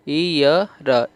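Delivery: slow teaching drill on ईयर; ईयर drawn out for the class; ईयर said very slowly. Shown as a demonstration. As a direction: stretch out ईयर syllable by syllable. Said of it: "इसे आप ईयर पढ़ रहे हो".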